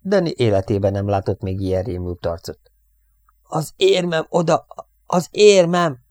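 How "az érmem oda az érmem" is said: high, drawn-out wail, growing louder; panicked babbling. A narrator's reading. Airman tells radioman his medal is gone, panicking.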